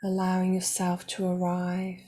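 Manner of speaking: calm, measured meditation guide with long pauses; guided meditation. Real, not acted. Meditation teacher guiding listeners toward self-acceptance, calm and unhurried. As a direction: guide listeners gently, leaving space between phrases.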